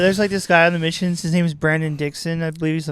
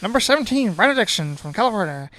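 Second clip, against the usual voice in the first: home run call; 4 semitones higher than usual. Pretend. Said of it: "I'll announce in that voice".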